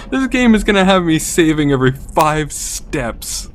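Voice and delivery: grind the words out furiously; angry rant. Real, not acted. Raging about the game.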